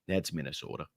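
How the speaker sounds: deep, quiet comic voice; low voice. Pretend. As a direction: drop the voice way down and soft. Punchline repeated, second much deeper.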